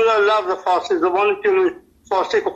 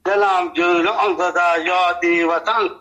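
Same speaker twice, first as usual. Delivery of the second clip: measured verse reading, slow at first; poetry recitation; slower than usual. Acted. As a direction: recite the couplets line by line, drawing out the opening.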